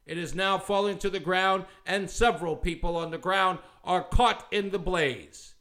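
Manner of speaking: a hint of steady, even radio reporting; straight news report. Shown as a demonstration. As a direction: read the disaster as plain calm news. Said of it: "in a straight and consistent manner".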